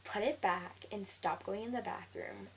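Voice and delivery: slow, measured order; retold scolding. Classmate ordering her out of the bathroom, slow retold scolding. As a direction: retell her order slowly and firmly. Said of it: "she goes".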